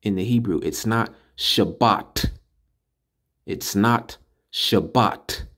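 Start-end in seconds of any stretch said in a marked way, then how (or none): 0.6-2.3 Shabbat said slowly as the wrong form, ending in a plain t; slow, careful Shabbat with a hard t at the end. Shown as a demonstration. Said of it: "That's how you say Sabbath". 3.5-5.5 Shabbat said slowly as the wrong form, ending in a plain t; slow, careful Shabbat with a hard t at the end. Shown as a demonstration. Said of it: "That's how you say Sabbath".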